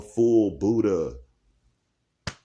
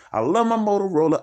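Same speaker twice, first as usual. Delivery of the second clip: high, loud gushing declaration; gushing love; 10 semitones higher, 3 dB louder, faster than usual. Acted. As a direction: squeal it like a true fan. Repeated line, emphatic take.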